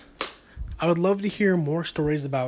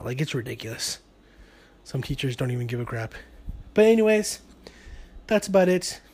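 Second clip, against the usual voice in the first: winded, breathy delivery; out of breath; 3 semitones lower than usual. Real, not acted. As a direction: talk while catching your breath. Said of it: "I know it sounds like I'm out of breath right now".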